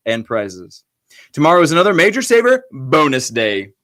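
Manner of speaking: official school announcement read; announcer voice. Shown as a demonstration. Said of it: "reading the Major Saver announcement in my announcer voice".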